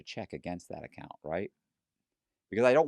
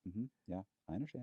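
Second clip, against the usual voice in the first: softer, easy, unbothered reply; calm and casual; 10 dB quieter, faster than usual. Shown as a demonstration. Conman showing the calm face he keeps, casual and soft. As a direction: sound totally relaxed though terrified inside. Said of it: "I'd be talking to you just like".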